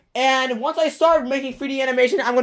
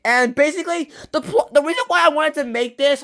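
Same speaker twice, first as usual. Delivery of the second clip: out of breath; 4 semitones higher than usual. Real, not acted. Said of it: "I'm running out of breath".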